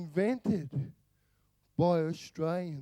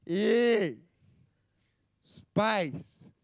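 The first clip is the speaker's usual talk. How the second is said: a laid-back broad Australian drawl; Australian Star Trek opening, laid-back and unimpressed; lazy Aussie. Acted. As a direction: say it like a bored Aussie shrugging at the stars. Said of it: "It'd be something like".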